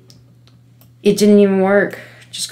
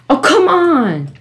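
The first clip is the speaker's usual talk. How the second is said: high, drawn-out frustrated cry; slow, high-pitched protest; exasperated; 10 semitones higher, 4 dB louder, slower than usual. Real, not acted. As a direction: wail in exasperation, falling at the end. Failing the climb again.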